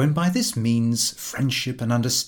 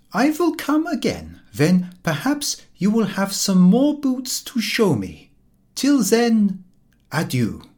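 higher, louder, grandly courteous; bow out with phrase-book grace; stilted courtly goodbye; polite farewell; 10 semitones higher, 5 dB louder than usual. A narrator's reading. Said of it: "the very best sentence".

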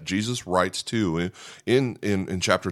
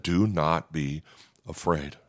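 slow, softer words of comfort; gentle reassurance; 3 semitones lower, 4 dB quieter, slower than usual. Retold or imitated. Jesus comforting the fallen John, slow and soft. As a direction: ease his fear slowly and softly. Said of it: "To just reassure him".

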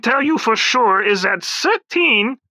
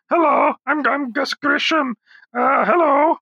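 higher put-on astronaut voice; a lightly voiced Grissom; Gus Grisham impression; 5 semitones higher than usual. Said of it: "We can talk to Grisham".

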